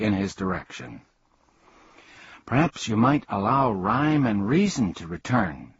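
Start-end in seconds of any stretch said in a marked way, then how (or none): none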